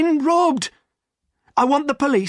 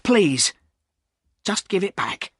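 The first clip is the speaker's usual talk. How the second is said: higher begging voice; pleading; 8 semitones higher than usual. A narrator's reading. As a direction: beg to have the money back. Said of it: "said Silas".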